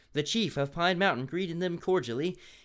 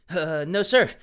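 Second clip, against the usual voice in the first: "no, sir" rising high and loud; chirpy, loud "sir"; bright, not gloomy at all; loud perky reply; 3 semitones higher, 8 dB louder, slower than usual. Shown as a demonstration. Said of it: "Dylan replied gloomily".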